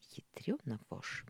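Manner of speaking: breathy whisper, voice dropped right down; whispered curse. A narrator's reading. Mikhail curses to himself in a whisper. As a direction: hiss it under your breath.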